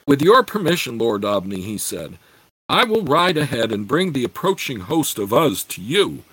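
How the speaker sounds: steady, measured reading of a fantasy novel; story narration. A narrator's reading. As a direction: read it like an audiobook narrator. Reads a fantasy novel aloud.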